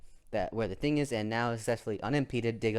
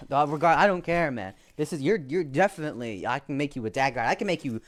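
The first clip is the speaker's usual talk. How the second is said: eager; 3 semitones higher, 4 dB louder than usual. Acted. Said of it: "He says".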